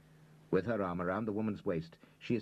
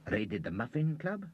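surprised; 6 semitones higher than usual. A narrator's reading. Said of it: "said Mo quickly".

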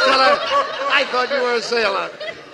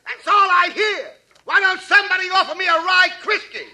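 parrot voice; 9 semitones higher, 3 dB louder than usual. Acted. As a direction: grumble like a parrot. Parrot complaining.

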